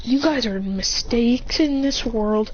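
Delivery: slow, calm mock taunt; calm put-down. Christian answering Naruto who is getting triggered, calmly. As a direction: stay unruffled, taking your time. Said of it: "Christian is too calm".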